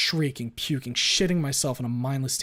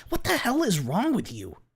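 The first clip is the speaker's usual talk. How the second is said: high, loud furious yell; 11 semitones higher, 6 dB louder than usual. Acted. Glenn yelling at Ripley over his daughter, furious. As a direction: scream the question at him.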